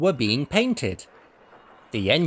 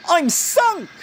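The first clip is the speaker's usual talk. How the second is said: dismayed; 4 dB louder than usual. A narrator's reading. Engine in the hole.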